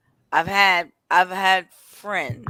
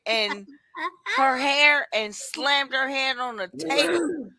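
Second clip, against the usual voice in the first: pitched up and loud, breaking with laughter; laughing confession; 8 semitones higher, 8 dB louder than usual. Real, not acted. Guest confessing a slammed head to the others, laughing. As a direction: blurt it out through laughs. Telling violent story through laughter.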